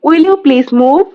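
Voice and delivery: "Will you please move?" said slowly with a rising end; slow, clear repeat for the learners; slow model reading. Shown as a demonstration. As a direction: drag it out slowly so learners can copy. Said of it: "teacher repeats phrase twice".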